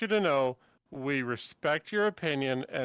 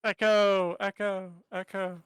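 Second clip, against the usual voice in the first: fading echo; 5 semitones higher than usual. Pretend. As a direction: echo dying away. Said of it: "mimicking an echo".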